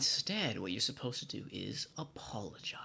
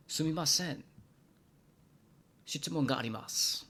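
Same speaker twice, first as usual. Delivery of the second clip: polite question; 4 semitones higher, 4 dB louder, faster than usual. Shown as a demonstration. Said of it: "Excuse me, I have a question".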